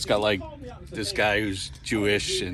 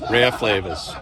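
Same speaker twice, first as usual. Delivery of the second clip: louder Boston accent, dropped R in "Rare Flavors"; 5 dB louder, slower than usual. Real, not acted. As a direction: say "Rare Flavors" loudly in Boston speech, "Ray-uh Flay-vuhz". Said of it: "That's my Boston accent".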